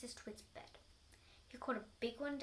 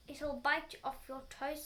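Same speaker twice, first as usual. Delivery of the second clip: loud, slow teasing threat; mock warning; 3 semitones higher, 6 dB louder, slower than usual. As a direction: drag it out to scare her. Husband taunts frightened wife.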